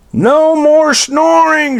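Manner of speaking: yelled. Acted. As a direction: yell it, fed up and exhausted. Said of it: "she yelled".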